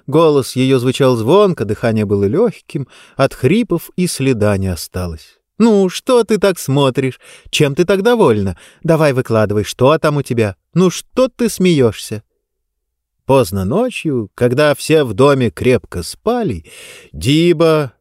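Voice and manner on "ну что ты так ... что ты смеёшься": cartoon princess. Zanna teases cheerfully.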